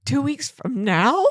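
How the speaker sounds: slow, drawn-out disbelief with a catch in it; incredulous question. Retold or imitated. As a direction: receptionist balking at a two-week appointment, drawn-out disbelief. Receptionist voiced in retold story.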